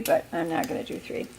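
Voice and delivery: hushed near-whisper to herself; whispered aside. Real, not acted. Cook whispering to herself about the third slice, hushed. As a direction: breathe it out as a private aside. Self-restraint aside while cooking.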